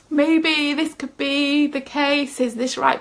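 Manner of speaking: slow, mildly hesitant suggestion; tentative hedging. Shown as a demonstration. Speaker showing how she normally softens her message, tentative. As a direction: feel your way gently into the question. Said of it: "give myself a bit of, you know".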